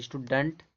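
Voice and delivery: "स्टूडेंट" as ishtu-dunt; "स्टूडेंट", uh in place of e; correct pronunciation. Shown as a demonstration. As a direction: say "स्टूडेंट" with a reduced last vowel. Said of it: "पढ़ा जाता है".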